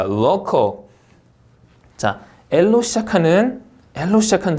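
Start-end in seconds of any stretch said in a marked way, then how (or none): 0.0-0.8 "local" with a clean L; clear L. Shown as a demonstration. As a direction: start "local" tongue behind the teeth. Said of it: "L이랑 R 발음 한번 구분". ("local"의 L을 정확히 발음)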